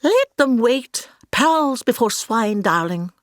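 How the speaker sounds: lofty diva drawl, darling; imagined imperious star; haughty Hannah. Retold or imitated. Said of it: "I could picture Hannah backstage saying".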